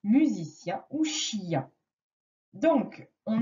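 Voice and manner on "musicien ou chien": 1 slow examples. Shown as a demonstration. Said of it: "j'entends yen comme".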